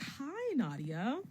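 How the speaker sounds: high, drawn-out mock greeting; mock-friendly greeting. Girl greets her while grabbing her tight, mock-friendly. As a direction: swoop up high on the hi, then drop.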